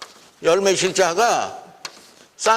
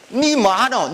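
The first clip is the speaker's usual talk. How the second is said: higher-pitched Gyeongsang question; Gyeongsang dialect; 4 semitones higher, slower than usual. Shown as a demonstration. Lecturer quoting the dialect for analysis, Gyeongsang dialect. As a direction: ask it with a Gyeongsang lilt. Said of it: "경상도 토속자리".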